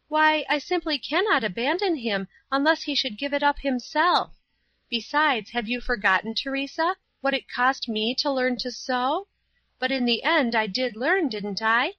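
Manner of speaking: put-on high-pitched girl's voice, earnest protest; Paula. A narrator's reading. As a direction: plead the pupil's case in a high girlish voice. Young Paula protests to Teresa.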